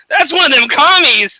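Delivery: high, drawn-out mock alarm; loud, stretched cry of a stuck-in-the-past accuser; outraged Cold War holdout. Mocking people stuck in the past, mock outrage. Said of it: "they'll be like".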